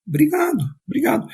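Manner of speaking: high-pitched, grateful thanks; thanking for a gift. Acted. Parents' lesson on receiving a present, high grateful thanks. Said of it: "quando a gente ganha um presente".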